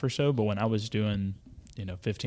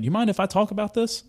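quoting Hurley; 12 semitones higher, 4 dB louder than usual. Retold or imitated. Hurley quoted standing up.

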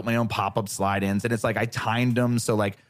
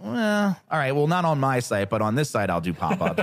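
mock grudging marketer; 3 semitones higher than usual. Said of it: "we're like".

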